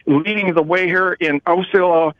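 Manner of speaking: choppy phone line; words cutting out; radio breaking up. Real, not acted. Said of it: "Mark is breaking up".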